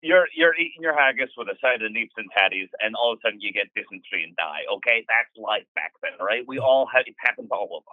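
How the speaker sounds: heavy Scottish brogue, rattled off; thick Scottish accent. Acted. Gregor describing life back then in a thick Scottish accent. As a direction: pile on the Scots words in a thick accent. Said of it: "This Scottish accent is so thick".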